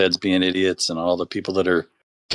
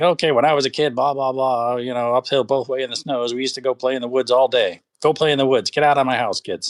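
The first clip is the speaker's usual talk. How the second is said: grandpa voice; 4 semitones higher than usual. Retold or imitated. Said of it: "the grandpa's like".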